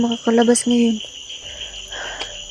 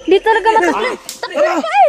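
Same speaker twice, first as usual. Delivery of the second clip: while running; 10 semitones higher, 6 dB louder than usual. Acted. Running from creatures.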